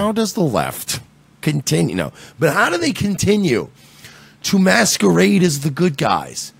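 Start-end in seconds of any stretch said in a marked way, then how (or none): 0.0-1.9 a hint of an indignant talk-radio host; quieter, lightly voiced radio-host delivery; Mark Levin impression. Host tries the line as a talk-radio host would, lightly voiced. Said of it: "Should I do that like Mark Levin?".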